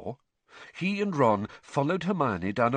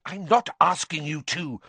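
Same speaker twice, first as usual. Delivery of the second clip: clipped, impatient reply; 6 semitones higher than usual. A narrator's reading. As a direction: brush the objection aside. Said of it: "Hermione said impatiently".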